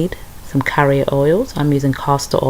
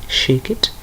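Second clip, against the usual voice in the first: bad Caribbean accent; 3 semitones lower, 4 dB quieter than usual. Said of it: "This is such a bad Caribbean accent".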